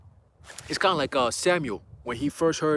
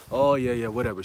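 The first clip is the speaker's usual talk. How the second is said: low, offhand brush-off; dismissive; 4 semitones lower than usual. Retold or imitated. Mom humoring her son about his faith, dismissive. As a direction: imitate mom not taking it seriously. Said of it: "She doesn't really take it seriously".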